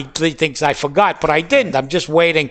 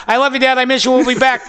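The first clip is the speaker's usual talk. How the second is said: mock grieving visitor; 5 semitones higher, faster than usual. Mock mourner at roadside grave.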